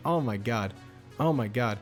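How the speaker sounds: normal talking voice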